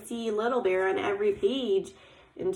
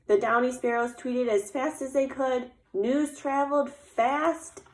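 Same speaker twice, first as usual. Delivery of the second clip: story refrain; 3 semitones higher than usual. A narrator's reading. Sparrows spreading news through the woods, lilting storytelling. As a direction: read it like a recurring picture-book refrain. Reads picture book aloud.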